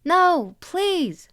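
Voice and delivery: high, loud frightened plea; terrified cry. A narrator's reading. Little brother pleading with a masked monster, terrified cry. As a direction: beg in terror, voice pitched right up. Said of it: "he cried, his expression terrified".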